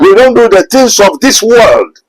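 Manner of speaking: high, slow pulpit declaration; emphatic preaching. Real, not acted. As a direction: drive it home slowly from the pulpit. Preacher drives the point home.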